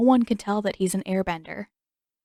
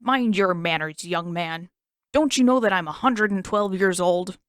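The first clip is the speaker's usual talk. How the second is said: lightly voiced old man scolding a youngster; a boy playing a grumpy old geezer, barely changed. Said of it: "in his best impression of an old man's voice".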